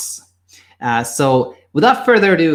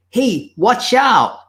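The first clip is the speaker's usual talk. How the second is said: higher-pitched call to a friend; acted warning shout; 11 semitones higher, 4 dB louder, much slower than usual. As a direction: shout a drawn-out warning, not full force. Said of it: "you shout out to your friend".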